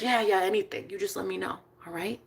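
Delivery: put-on soft, calm boyfriend; hushed, gentle promise; tender reassurance. Voices boyfriend calmly reassuring.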